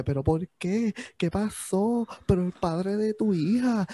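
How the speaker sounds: imitating gossiping fans; mocking concerned gossip. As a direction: lightly imitate people scolding her online. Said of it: "está diciendo como que".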